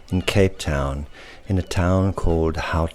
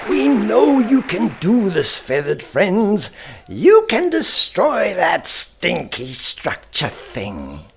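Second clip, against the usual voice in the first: rallying crowd voice; 13 semitones higher than usual. Acted. Crowd urging the gulls to attack, high rallying cheer.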